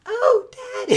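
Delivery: put-on very high falsetto young woman. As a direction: squeak it up high and girly. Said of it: "my voice broke".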